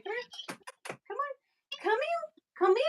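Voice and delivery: very high, soft coaxing call. Real, not acted. Coaxing the dog to come.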